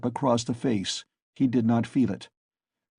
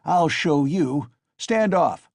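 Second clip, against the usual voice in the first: frantic scream; 5 semitones higher, 4 dB louder, slower than usual. A narrator's reading. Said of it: "Mikolka screamed frantically".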